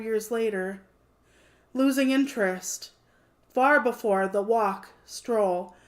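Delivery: measured, deliberate poem recital; poetry reading. Acted. Author reading her debut poem to stream viewers, measured recital.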